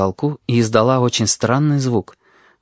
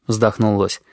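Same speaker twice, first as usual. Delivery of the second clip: plain reading voice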